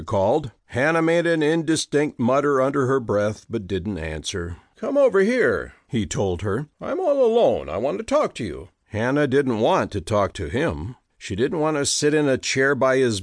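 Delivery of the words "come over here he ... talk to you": pleading sick man. Acted. Peter calling from bed.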